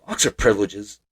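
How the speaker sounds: a lightly voiced gruff dad, baffled; dad's baffled echo. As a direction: repeat the phrase in flat disbelief. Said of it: "He blinks".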